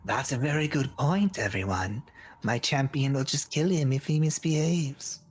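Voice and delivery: lightly voiced god answering the crowd; a hint of a god in the voice. A god addressing everyone about their champion, lightly voiced. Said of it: "You hear".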